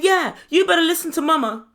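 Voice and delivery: loud, high backing-up shout; mock yelling. Imitating Tammy backing Mama, loud mock yell. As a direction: chime in loudly as the sister. Acted quarrel, sister backing mum.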